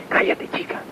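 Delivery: whispered aside, nearly no voice; hushed retort. Retold or imitated. Master hushing the reverend so the doctor won't hear, whispered.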